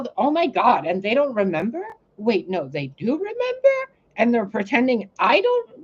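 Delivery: high, rising panicked questions; anxious racing thoughts. Retold or imitated. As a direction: spill out the questions one after another. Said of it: "come to terms with".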